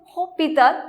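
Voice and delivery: "hospital" as French "ôpital", S dropped; silent H. Shown as a demonstration. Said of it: "don't pronounce H over here".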